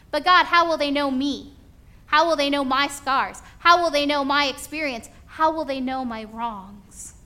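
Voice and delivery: loud, high, anxious begging; cling to the bags and beg; desperate pleading. Acted. Susie pleading with God in skit.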